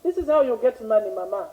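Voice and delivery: calm, quiet coaxing voice; softly. Shown as a demonstration. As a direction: drop it down, soft and calm. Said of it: "Calm down".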